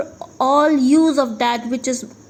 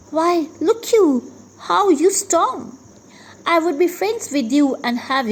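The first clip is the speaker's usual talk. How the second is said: mock exclamation; 6 semitones higher than usual. Teacher acts Shylock's reply.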